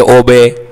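"ओबे" ending in a clear "bay"; "ay" sound. Shown as a demonstration. Teacher linking sound to spelling, "ओबे" said "o-bay". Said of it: "ए का sound".

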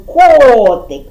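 КОТИК with КО held long; stress on first syllable. Shown as a demonstration. Teacher repeating the stress for children, long КО in КОТИК. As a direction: hit the first syllable of Котик and let it fall. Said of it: "вдарили голосом".

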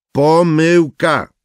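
slow, clipped voiced retort; curt reply. Narrator answering Janis curtly. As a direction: spit out the word slowly.

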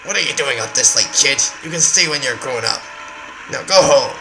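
put-on stern adult scolding a kid; a hint of a grumpy uncle; gruff uncle voice. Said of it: "Come on, I can do this voice".

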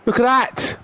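real excitement; excited exclamation. Real, not acted. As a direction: point it out with delight.

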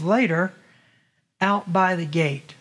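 "Later, out by the gate" read slowly with pauses; slow down on "Later, out by the gate" so it is noticed; drawn-out, careful scripture reading. Shown as a demonstration. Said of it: "I really want you to read it slowly".

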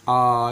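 आ held as an open, long aa; long aa sound. Shown as a demonstration. Teacher to students, modelling the long आ sound. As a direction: draw out the broad vowel आ. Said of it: "इस तरह से आवाज़ निकालते हैं".

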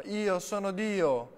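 high, loud, slow proclamation; crazed boy shouting before Prabhupada. A narrator's reading. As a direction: yell it like a mad prophet.

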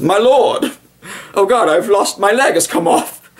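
high, strained cry of an officer; wounded cavalry officer. Retold or imitated. Uxbridge telling Wellington, a high hammed-up cry. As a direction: ham up an officer who lost his leg. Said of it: "He goes".

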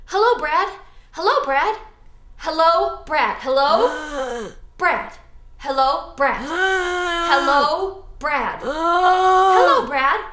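repeated gasping zombie hellos; zombie practice. Shown as a demonstration. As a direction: keep trying not to moan. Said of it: "Say it".

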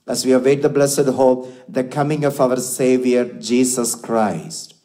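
solemn liturgical prayer voice. Acted. Priest prays the embolism.

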